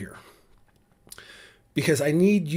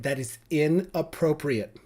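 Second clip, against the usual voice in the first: 1 mocking prissy scold; 2 semitones higher than usual. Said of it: "They love that word".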